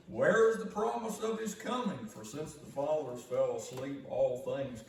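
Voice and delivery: high, loud, mocking question; scoffers' challenge. Preacher voicing the scoffers to the congregation, loud mocking challenge. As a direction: throw the taunt out like a scoffer.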